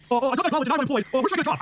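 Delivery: high, whiny mocking voice; mock a helpless dropout; lightly whining pretend dropout.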